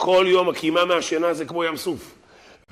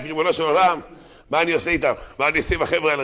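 retold cry; 3 semitones higher than usual. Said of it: "שמשה רבנו צועק".

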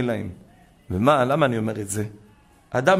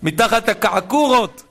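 retold excited confession; 8 semitones higher, 4 dB louder than usual. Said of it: "אומר".

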